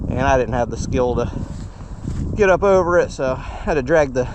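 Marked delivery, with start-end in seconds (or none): 2.4-4.3 panting after dragging the bike; breathless, words between gasps; out of breath. Real, not acted. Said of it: "now I'm out of breath".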